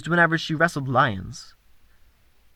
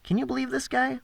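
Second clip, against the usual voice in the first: scoffing thug voice; 10 semitones higher, 6 dB quieter than usual. Acted. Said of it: "as if to say".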